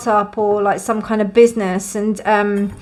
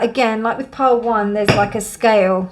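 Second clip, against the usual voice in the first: talking around a sip of tea; words just after a sip of tea; sipping tea. Real, not acted. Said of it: "Sorry, I was sipping tea".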